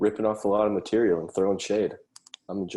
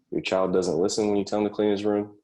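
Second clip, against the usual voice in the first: high-pitched mock advertising question; 4 semitones higher, 5 dB louder than usual. Comic posing a parenting problem to parents, mock ad pitch. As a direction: pitch it high, like a commercial's setup.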